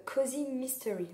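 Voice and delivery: cozy mystery in an English accent, words in the right order. Shown as a demonstration. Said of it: "Ça fait mieux avec l'accent anglais".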